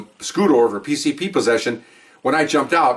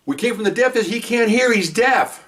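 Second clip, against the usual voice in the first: higher, insistent explanation; urgent explaining; 8 semitones higher, slower than usual. Retold or imitated. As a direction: insist he is deaf. Witness explaining to officers.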